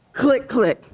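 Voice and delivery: crisp mimicked click of cuffs; imitated handcuff clicks. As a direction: voice the cuffs locking as a sound effect. Imitates handcuffs snapping shut.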